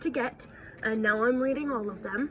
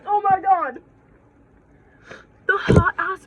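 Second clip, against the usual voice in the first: excited shriek; 9 semitones higher, 10 dB louder than usual. Real, not acted. Motorcycle guy drives past.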